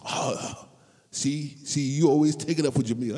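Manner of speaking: playful mock debate; arguing with a fan over Jamil's fumble; mock argument. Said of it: "I'm like".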